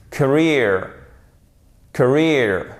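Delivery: Career as kuh-REER, falling on the stressed syllable; clear, isolated model Career for repeating; correct English pronunciation. Shown as a demonstration. Teacher drilling before learners repeat, correct English pronunciation. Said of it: "faites d'abord bien l'accent tonique".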